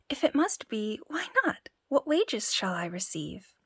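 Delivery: cocky little tailor haggling. Acted. Tailor speaks.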